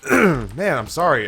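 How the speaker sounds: coughing, throat irritated; choking a bit. Real, not acted. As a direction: talk past a tickle in the throat. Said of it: "something just went down the wrong pipe".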